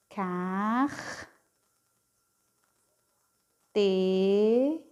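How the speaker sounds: "car, te" held apart with long pauses; syllable by syllable. Shown as a demonstration. Teacher breaking "carteira" into syllables for pupils, slow. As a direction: sound out "car" then "te" slowly. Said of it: "ó, carteira".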